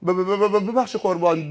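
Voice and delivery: stuttering on the first sound; nervous stammer. Retold or imitated. Driver apologising to the angel of death, nervous stammer. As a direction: trip over the apology before getting it out.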